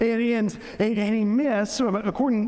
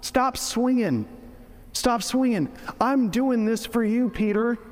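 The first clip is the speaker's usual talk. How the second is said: exasperated scolding, pitched higher; retold rebuke; 4 semitones higher than usual. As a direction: rebuke a follower who should know better. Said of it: "Gets a rebuke from Jesus".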